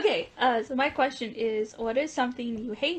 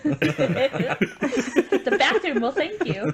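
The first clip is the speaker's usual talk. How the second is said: laughing; 4 semitones higher, 4 dB louder, much slower than usual. Real, not acted. Joke to friend.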